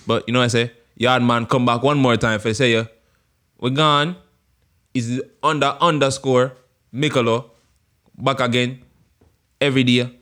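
put-on Jamaican accent; Jamaican man voice. Host signing off to viewers, Jamaican accent. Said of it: "my Jamaican man voice".

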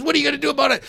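high-pitched mock challenge; retold screaming match. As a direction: imitate someone goading in a quarrel. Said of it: "they're screaming at each other".

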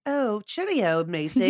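lightly attempted English accent; a badly faked English greeting. Shown as a demonstration. Showing a co-host her attempt, bad English accent. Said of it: "Is that your English accent?".

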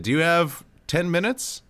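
lightly imitated Trinidadian uncle; attempted Trinidadian accent. Uncle asking his nephew for time, lightly imitated Trinidadian accent. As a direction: ask with a hint of Trinidadian lilt. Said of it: "I'm gonna attempt the accent".

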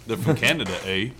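lightly imitated Canadian accent; Bud Fisher. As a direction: try a Canadian accent, tagging on "eh". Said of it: "Bud Fisher would say".

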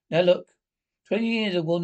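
loud, firm opening; stern. Acted. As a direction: command their attention. Sergeant major turns stern.

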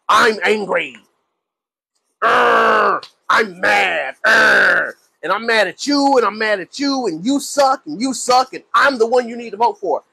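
mock the candidate's empty angry rant, growling between lines. Candidate on camera ranting instead of giving policies, mock-angry growls. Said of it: "they ain't got nothing to say except".

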